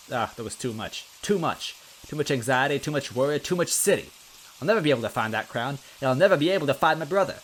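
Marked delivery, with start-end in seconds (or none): 1.2-4.1 rising anxiety. Acted. Luigi's anxiety building. 4.6-7.4 fast and louder, rising to a panicked rush. Acted. Luigi's panic peaks.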